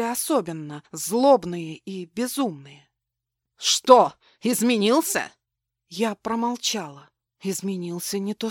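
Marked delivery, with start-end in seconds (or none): 3.6-5.3 громкое злое «Что» с насмешкой; бросить с издёвкой; злая насмешка. Acted. Злобный бывший муж издевается. (злобная громкая насмешка)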